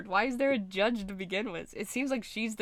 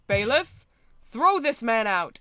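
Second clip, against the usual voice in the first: louder barked order; commanding shout; 3 semitones higher, 10 dB louder than usual. Acted. Queen loudly ordering the bailiff to remove Wright. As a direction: order the guard at full voice.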